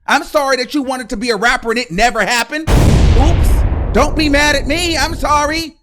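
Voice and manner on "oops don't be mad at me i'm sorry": breathy, loud mocking oops; cheeky oops. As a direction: taunt with a fake oops. Mock apology taunt.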